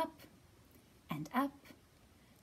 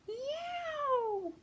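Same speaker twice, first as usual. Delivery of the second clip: much higher, startled yow; high yelp; 5 dB louder than usual. Acted. Story voice yelping Yow in surprise.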